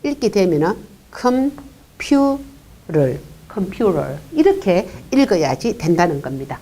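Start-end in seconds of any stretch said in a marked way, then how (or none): 1.1-2.4 컴퓨터, slow, with the T softened to a flap; real American T. Shown as a demonstration. Teacher demonstrating the native flap in 컴퓨터 to moms. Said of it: "리얼 발음으로 해야 되는데".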